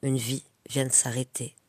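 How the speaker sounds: poème lu posément, en courtes phrases séparées de pauses; dis-le comme un poème, vers après vers; récitation de poème. Acted. (poème récité, chaque vers posé)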